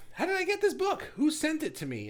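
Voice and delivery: high, loud bewildered question; puzzled squeal. Retold or imitated. Imagined time traveler baffled by a mystery package, high and loud. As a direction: voice jumps up in shock. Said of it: "realizing to yourself".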